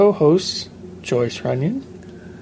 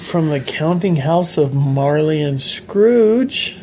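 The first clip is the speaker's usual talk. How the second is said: slow, proper public radio announcer; lightly voiced formal radio host; PBS announcer; 2 semitones higher, slower than usual. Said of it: "I was trying to sound like a P B S announcer there".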